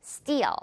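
Steal with a long ee-uh glide, falling; drawn-out steal. Shown as a demonstration. Teacher models for repeat, drawn-out Steal. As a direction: stretch Steal slowly to its end. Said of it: "발음 좀 길게 끌어주세요".

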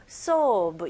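"sob" with rounded lips, an "o" vowel; Korean-style sob. Shown as a demonstration. Teacher mimicking how many Koreans say it, rounded vowel in "sob". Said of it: "이런 식으로 많이 발음하시더라고요".

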